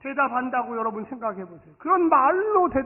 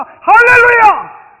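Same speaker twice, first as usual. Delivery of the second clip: long, drawn-out shouted hallelujah; triumphant hallelujah; 12 semitones higher, 18 dB louder, much slower than usual. Real, not acted. Pastor crowning his story, shouting hallelujah. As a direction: stretch it out and lift the room.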